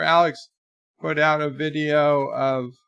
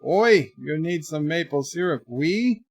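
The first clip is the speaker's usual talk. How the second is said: hailing, with a questioning lilt at the end; mock French-Canadian approach; 2 semitones higher than usual. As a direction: lightly play a mock French-Canadian offer. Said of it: "if you go up to them and says".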